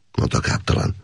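ordinary delivery

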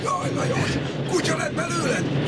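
high mock lament; mock wailing cry. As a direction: act out a sceptical cry of dismay. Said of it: "Én meg azt kiabálom".

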